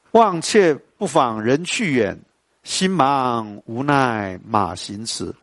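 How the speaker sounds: slow, lingering verse reading; poem recitation. Shown as a demonstration. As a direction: read the couplet as if savouring it. Recites poem lines slowly. (慢慢吟诵诗句)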